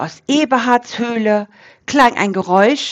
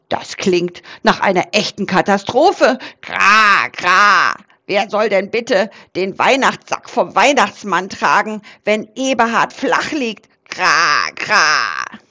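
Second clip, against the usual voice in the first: croaking raven. Acted. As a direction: squawk it like a fussy raven. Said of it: "krächzte es von oben". (Rabe Krax krächzt aufgeregt)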